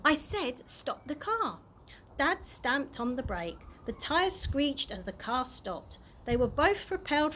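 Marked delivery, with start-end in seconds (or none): 0.0-1.6 insistent. Acted. Chloe insists.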